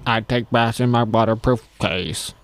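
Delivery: slow mock robot; lightly mechanical, measured delivery. The speaker as a robot answering an interview question, slow mock robot. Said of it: "Robot version of him?".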